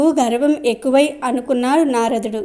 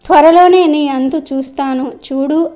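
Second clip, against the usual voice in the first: angry threat. Acted. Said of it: "వాయుదేవునికి చెప్పలేనంత కోపం వచ్చింది".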